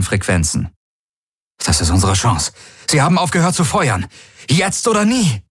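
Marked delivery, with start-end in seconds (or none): 1.6-5.4 rising, pushing harder toward the end; rally the fleet, build to a cry; now-or-never battle call; urgent rallying call. Acted. Rallying the fleet over comms.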